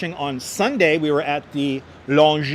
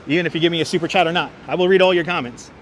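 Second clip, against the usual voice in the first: auctioneer speed; faster than usual. Shown as a demonstration. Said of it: "I gotta speak fast like an auctioneer".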